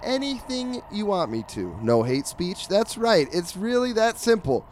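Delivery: punchy ad-read delivery; sponsorship pitch. Acted. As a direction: sell it like a podcast promo. Reads the podcast's sponsorship pitch.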